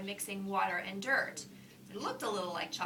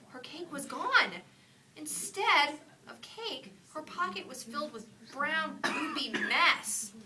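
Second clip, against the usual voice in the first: slow dramatic reveal; 6 semitones higher, 5 dB louder, slower than usual. A narrator's reading.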